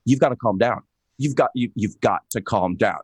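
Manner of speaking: low, measured talk-down, slowing at the end; imitated calming friend. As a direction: imitate a friend steadying someone who is freaking out. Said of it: "calming presence".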